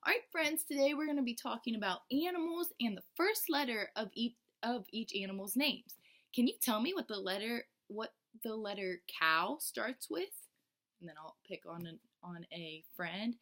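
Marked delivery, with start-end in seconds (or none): 0.0-10.5 put-on bright, higher teacher voice for little kids; addressing the class at circle time, bright and high. Shown as a demonstration. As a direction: engage preschoolers with a lifted, friendly voice. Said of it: "And I'll say".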